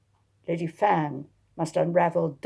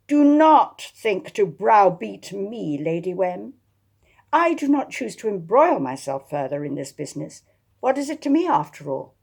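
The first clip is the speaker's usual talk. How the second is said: fury; 3 semitones higher, 6 dB louder than usual. Acted. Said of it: "Attilia turned in fury".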